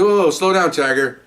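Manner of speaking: mock-firm whoa, pulling him up short; retold telling-off. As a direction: tell him to back off, half-mocking. Telling off a pushy officer.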